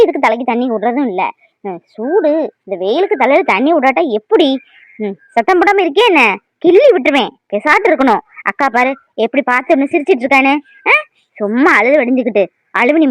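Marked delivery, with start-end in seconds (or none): 5.0-8.2 put-on louder, higher scolding of the baby; stern grandmother warning a crying child; mock threat. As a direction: threaten a pinch, half in jest.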